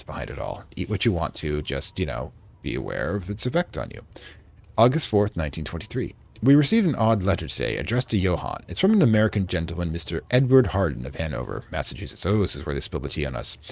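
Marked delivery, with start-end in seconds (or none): 4.8-12.3 put-on light British accent for a diary entry; reading a diary in a mild British accent; vaguely British accent. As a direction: read it like a 1920s English diarist. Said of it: "I'm doing a vaguely British accent".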